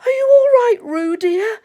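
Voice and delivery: high, loud anxious call; Kanga. Acted. Kanga calling to Roo in the water, anxious high call. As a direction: call out in motherly alarm. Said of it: "called Kanga anxiously".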